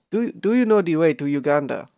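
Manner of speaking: hammed-up Ugandan meme accent; mock Ugandan accent. Asking friends the way to Uganda, mock Ugandan accent. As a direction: put on a joke Ugandan accent.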